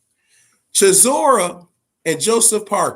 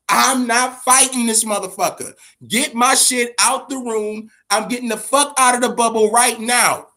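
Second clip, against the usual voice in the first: retold angry outburst; 3 semitones higher than usual. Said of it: "he fucking loses it".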